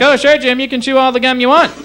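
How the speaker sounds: hammed-up easygoing professional, starting high and easing down; breezy dentist. Dentist letting patient Jim chew sugary gum, mock-obliging. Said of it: "this guy for a dentist".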